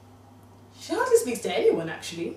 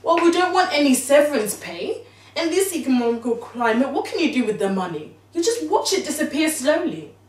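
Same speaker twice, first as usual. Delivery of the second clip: agitated thoughts; 4 semitones higher, 6 dB louder than usual. Retold or imitated. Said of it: "I'm thinking".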